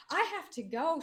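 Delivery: high-pitched frantic friend, imitated; retold hysterics. Friend pulled away on election night, mock hysterical. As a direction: imitate a worked-up friend, voice jumping up. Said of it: "she was hysterical".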